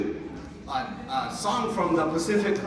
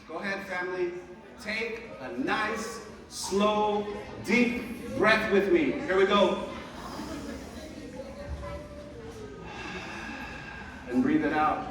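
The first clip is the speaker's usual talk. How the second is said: calm breathing guide; 6 dB quieter than usual. Real, not acted. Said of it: "guided breath".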